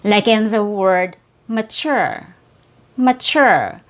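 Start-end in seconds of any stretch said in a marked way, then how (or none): 1.5-3.8 "mature" with its T said as CH. Shown as a demonstration. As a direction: demonstrate "mature" as "ma-chur". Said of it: "a C H sound".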